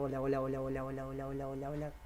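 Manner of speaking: hurried chain of hola. Shown as a demonstration. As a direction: speed the hola up. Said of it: "más rápido, rápido".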